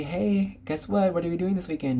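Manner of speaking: teasing parent. Retold or imitated. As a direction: tease the kid about the surprise. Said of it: "They say".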